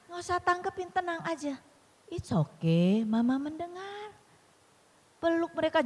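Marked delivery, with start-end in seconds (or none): 0.1-4.1 soft, unhurried reassurance; gently calm an upset child, drawing out the last words; soothing mother. Acted. Mother comforting her angry child, soothing.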